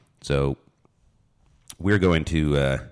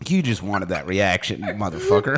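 laughing; 2 semitones higher than usual. Real, not acted. Laughing at the friend.

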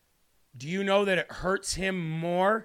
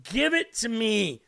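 mildly pleading, raised pitch at the end; begging; 4 semitones higher than usual. Acted. Preacher voicing God begging a listener, pleading. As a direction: plead with a touch of urgency. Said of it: "screaming, crying, begging".

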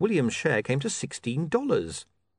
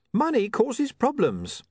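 a higher, slow mock wail; mild wail; 11 semitones higher, 3 dB louder, slower than usual. A narrator's reading. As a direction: stretch the words out in a lightly voiced wail. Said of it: "William wailed".

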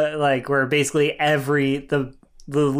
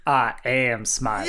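flat, slow deadpan; 4 semitones lower than usual. Retold or imitated. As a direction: say it totally straight. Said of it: "And just deadpan".

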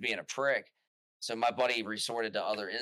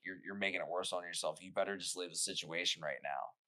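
softer, lower, menacing; low warning; 4 semitones lower, 7 dB quieter than usual. Retold or imitated. Retelling his quiet warning to the boss. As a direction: quietly warn him to back off.

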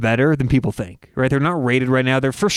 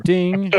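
spoken notification ding; imitated ding; 3 semitones higher than usual. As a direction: voice a little bell ding. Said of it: "did you guys just hear that".

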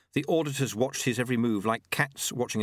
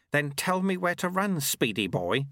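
shouting; 7 semitones higher than usual. A narrator's reading. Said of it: "he shouted".

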